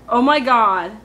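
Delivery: loud dramatic Oh my God. Shown as a demonstration. Contrasting full phrase with slang, loud and dramatic. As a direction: throw drama into every word. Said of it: "There's no drama there".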